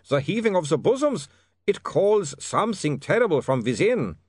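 put-on high, agitated accented vampire; struggling against his thirst; frantic vampire. A narrator's reading. Otto frantic.

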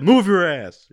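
imitating a kitchen tirade; mock chef shout. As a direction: shout the order like a furious chef. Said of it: "He said".

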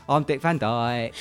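Dick Van Dyke. Acted. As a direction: drop down and announce it in mock cockney. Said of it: "I'll do Dick Van Dyke in Mary Poppins".

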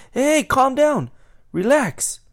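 high, loud command to settle down; forceful calming call. Retold or imitated. Worker telling an angry customer to settle, loud retold command. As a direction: call out sharply over a ranting man. Retelling himself confronting shouting customer.

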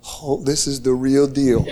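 low, half-laughed disbelief; laughing realization. Real, not acted. Preacher to congregation, recalling the moment, laughing low. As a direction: chuckle it out as it sinks in.

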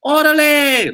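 high, loud call-back shout of Orale!; crowd call-back. Retold or imitated. Comedian mimics an Indian crowd answering Gabriel, in a loud call-back shout. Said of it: "all the Indian people are like".

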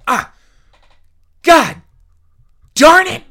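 high, loud mock fury; teacher's angry non-swear. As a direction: spit out the clean curse like the worst profanity. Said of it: "he said the non-swear with the vigor and anger".

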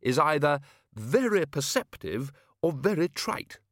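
slow, dry wizard voice; bluff old wizard. A narrator's reading. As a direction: weigh it up drily. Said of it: "said Ridcully".

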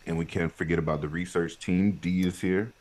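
upbeat host opening the show; podcast intro. Acted. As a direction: welcome listeners like a host.

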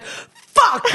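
high, sudden exclamation of regret; retold frustrated curse. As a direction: imitate cursing yourself. Retold outburst, mad at herself.

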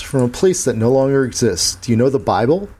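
gunslinger voice. Acted. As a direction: speak like a tired old gunman. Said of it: "I had to speak like the gunslinger".

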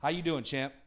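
a hint of the Lord checking in on you; gently voiced Lord, low and soft; the Lord asking. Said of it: "what I hear the Lord say to me".

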